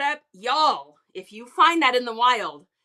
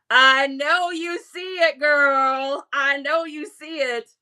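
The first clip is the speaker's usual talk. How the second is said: louder, punchier repeat of the tease; hyped teasing; 5 dB louder than usual. Acted. To a viewer over the jorts, hyped and teasing. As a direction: hype the jorts up to her.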